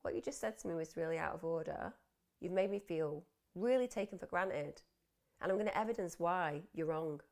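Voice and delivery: composed, assertive statement; calmly and firmly stand your ground; measured, self-possessed delivery; quiet, calm composure. Acted. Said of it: "just quietly and calmly compose myself".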